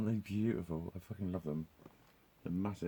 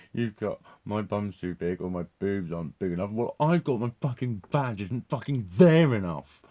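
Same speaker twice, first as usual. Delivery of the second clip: mock complaint; 8 dB louder than usual. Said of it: "It's like".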